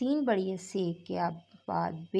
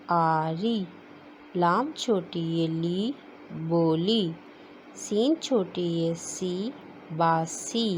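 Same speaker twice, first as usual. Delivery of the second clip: classroom reading drill. Acted. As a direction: read each word out for the children to repeat. Teacher drills Urdu reading aloud.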